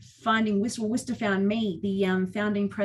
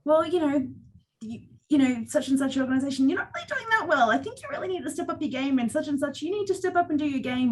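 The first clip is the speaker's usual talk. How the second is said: shaky voice; 5 semitones higher than usual. Retold or imitated. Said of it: "my voice is shaking".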